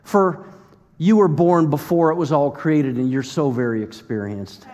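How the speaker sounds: sarcastic mock deference, tailing downward; holy condescension; condescending. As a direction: talk down to Job as if praising him. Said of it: "so condescending a little bit".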